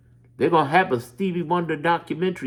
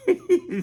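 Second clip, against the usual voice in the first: short high laugh; quick high chuckle. Real, not acted. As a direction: laugh at the memory. Laughing at the story.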